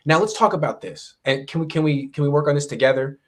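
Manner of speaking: a hint of a delighted, supportive editor; encouraging editor. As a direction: cheer the writer on. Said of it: "someone who actually says".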